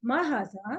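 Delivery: lilting question on "मा हाजा"; questioning tune. Shown as a demonstration. Teacher models asking what this is, questioning tune. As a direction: ask "मा हाजा" with a rising, expressive lilt. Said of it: "question कैसे पूछेंगे?".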